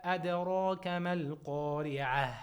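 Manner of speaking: chanted tajweed recitation, held and measured; Quran recitation. Shown as a demonstration. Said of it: "you can say with six harakats".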